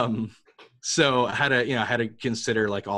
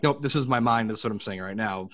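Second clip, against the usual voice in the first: blunt New Yorker; 3 dB louder, faster than usual. Retold or imitated. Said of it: "the New Yorker who's like".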